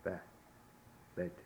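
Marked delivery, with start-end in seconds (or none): 0.0-0.1 "Be" as bed without its final d; eh vowel. Shown as a demonstration. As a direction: sound out "Be" with a short eh. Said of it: "it's an eh sound".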